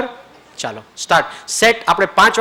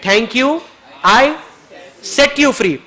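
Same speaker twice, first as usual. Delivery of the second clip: raised, ringing words of release; loud release; 5 semitones higher, much slower than usual. Shown as a demonstration. Partner answers the apology with a loud release. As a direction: declare it so others hear. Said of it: "મોટેથી હોવું જોઈએ".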